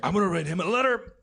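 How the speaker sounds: lightly voiced aging comic dictating a letter; a hint of old Colin Quinn; old Colin Quinn impression. Old Colin Quinn writing an angry fan letter, mock grumble. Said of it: "now Colin Quinn's like".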